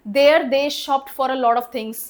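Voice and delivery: very slow, word by word; slow example read. Shown as a demonstration. Teacher dictating an example sentence to the class, very slow. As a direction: dictate it so students can write it down. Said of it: "teacher dictating example sentence".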